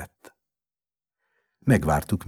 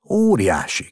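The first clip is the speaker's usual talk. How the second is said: loud, higher-pitched exclamation; jubilant cry; 5 semitones higher, 9 dB louder than usual. A narrator's reading. Father tells friend of the cure, exclaiming. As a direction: burst out with great news. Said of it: "kiáltott".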